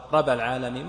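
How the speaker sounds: رب العالمين with the b of رب left single; dropped shadda. Shown as a demonstration. Teacher showing an invalid recitation, رب العالمين without the shadda. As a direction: say رب with one light b before العالمين. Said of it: "ما صحت".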